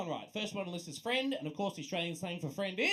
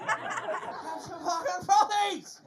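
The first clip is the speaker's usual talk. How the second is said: very slow, higher broad Aussie yell; milk every syllable like a drunk bogan; hammed-up ocker; 9 semitones higher, 4 dB louder, much slower than usual.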